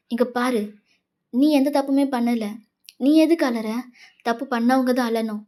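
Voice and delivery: insistent, protective reassurance; consoling friend. Acted. JK telling weeping Wayan she did no wrong, urgently consoling. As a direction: firmly talk her out of crying.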